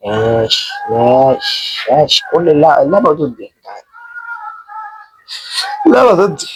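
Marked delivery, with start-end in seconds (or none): 5.9-6.5 whispered repeat of the complaint. Real, not acted. Gamer whispering to himself. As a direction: drop to a whisper.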